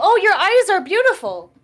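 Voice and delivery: excited, exclaiming character voice. Speaking in character to a stranger who lifted his goggles: exclaiming. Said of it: "I'm gonna exclaim".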